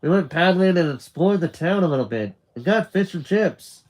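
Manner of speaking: high, quick, eager chatter; excited recounting. Acted. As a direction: gush to your mum about the day. Nick excitedly tells mum about day.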